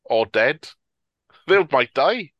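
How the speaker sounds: mock-indifferent, noncommittal answer; shrugged off. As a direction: toss it off with a verbal shrug. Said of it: "they sort of shrug off".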